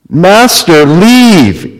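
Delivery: begging. Acted. Peter begs his master to leave him, pleading. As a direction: plead with a touch of urgency. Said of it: "he begged".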